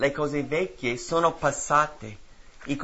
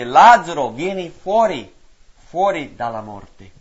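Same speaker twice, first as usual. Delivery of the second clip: slow loud call; 2 semitones higher, 10 dB louder than usual. Acted. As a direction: stretch the command out as a loud call. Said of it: "E Gesù gridò ad alta voce".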